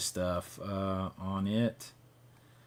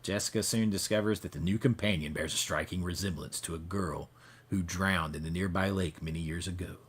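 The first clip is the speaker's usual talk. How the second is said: news anchor voice; 2 semitones lower than usual. Pretend. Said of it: "I'll stop with the news anchor voice".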